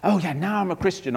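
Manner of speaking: a touch of mock pride; worldly boasting. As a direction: brag lightly about yourself. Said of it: "in the world's way".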